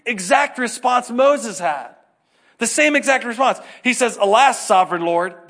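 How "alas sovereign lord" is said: loud, solemn biblical sigh; Jeremiah's dramatic alas; mock old-fashioned lament. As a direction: say it like a hammed-up lamenting prophet. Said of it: "That's a little different".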